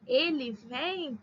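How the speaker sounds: "vem" drawn out slowly; slow singular vem. Shown as a demonstration. Teacher dictating singular form slowly. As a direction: spell out "Ele vem" slowly for class.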